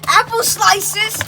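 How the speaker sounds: loud, high, drawn-out delight; excited cry. Acted. Mario finding food in the fridge, excited cry. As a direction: exclaim it like a great find.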